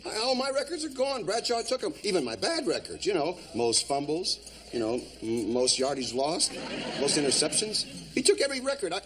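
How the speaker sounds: high, whining self-pity; whiny. Acted. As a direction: complain like a hurt old pro. Coach whines about lost records.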